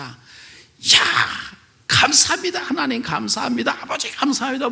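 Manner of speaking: high, joyful cries of thanks; shouting thanks. Retold or imitated. The elder running down the hospital corridor, shouting joyfully. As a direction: cry out thanks to God. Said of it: "막 소리를 지르면서".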